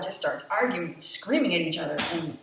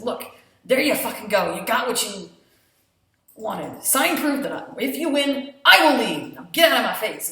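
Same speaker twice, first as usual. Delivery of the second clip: much louder angry shout; furious yell; 3 semitones higher, 10 dB louder than usual. Retold or imitated. Faye throwing signed papers back, furious yell. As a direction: hurl it at him in a fury.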